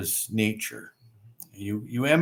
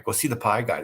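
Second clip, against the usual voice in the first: quoting the locals; faster than usual. Retold or imitated. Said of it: "they all talk like that".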